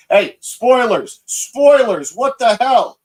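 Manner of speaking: loud, high mock scolding of himself; mock outrage. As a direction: play shocked at your own spoilers. Scolds himself over leak tangent.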